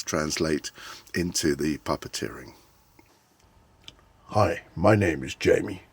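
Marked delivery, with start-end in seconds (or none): 4.3-5.8 Jamie character voice. Shown as a demonstration. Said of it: "my expressions are all working very well".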